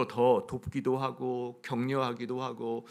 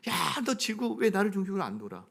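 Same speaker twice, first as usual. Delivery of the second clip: higher-pitched, half-playful indignant protest; mock anger; 4 semitones higher than usual. Moon scolds Earth for not orbiting it, mock anger. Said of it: "그러니까 막 화를 내는 거예요".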